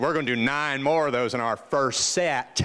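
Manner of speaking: a hint of a Southern coach's accent; lightly voiced Southern trainer. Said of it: "he has this wonderful Southern accent".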